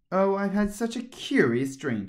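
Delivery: high, eager Alice. A narrator's reading. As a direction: tell it with wonder. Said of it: "said Alice".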